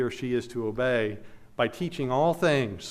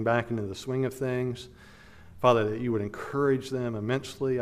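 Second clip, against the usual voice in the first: closing prayer; 2 semitones lower than usual. Acted. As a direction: pray gently for the family, speaking to God. Pastor leads closing prayer.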